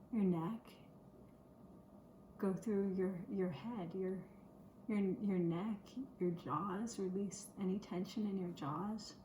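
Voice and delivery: unhurried body-scan instructions with long pauses; lightly meditative, pausing after each phrase; guided relaxation. Shown as a demonstration. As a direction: lead listeners gently through relaxing and breathing. Leads a relaxation exercise.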